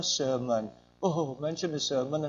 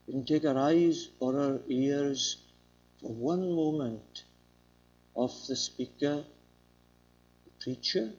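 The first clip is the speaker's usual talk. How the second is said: rapt listening. Shown as a demonstration. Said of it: "She listened like this".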